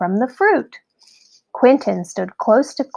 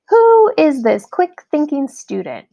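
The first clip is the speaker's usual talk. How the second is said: hearty praise; 6 semitones higher, 5 dB louder than usual. A narrator's reading. Musician praises Quentin loudly.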